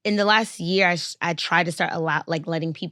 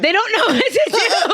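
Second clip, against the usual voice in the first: laughing. Real, not acted. Laughing about awkward men.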